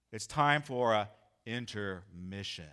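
like casting a spell on the church; lightly voiced sinister preacher; sinister announcement. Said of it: "so dark and evil".

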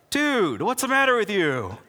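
can't believe he's being asked this; exasperated Jesus. Acted. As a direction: play an exasperated Jesus scolding someone. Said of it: "got the nervous twitch in his eye".

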